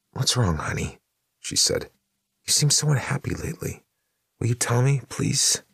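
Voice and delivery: a dead wife chattering about chores; ghostly wife Vicky, pleading. Acted. Vicky's ghost asks tenderly.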